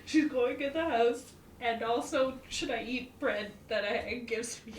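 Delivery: excited message. Retold or imitated. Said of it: "I message Kirith and I go".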